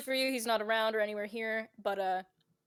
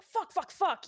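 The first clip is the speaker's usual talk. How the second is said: high mock-panicked cursing; quick alarmed outburst, pitched up; mock panicked driver; 8 semitones higher, 3 dB louder than usual. Driver swerving to miss someone, mock panic. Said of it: "swerves like".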